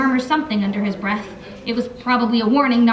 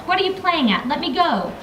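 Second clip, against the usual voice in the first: annoyed demand; 5 semitones higher than usual. Acted. Griff yelling from the net.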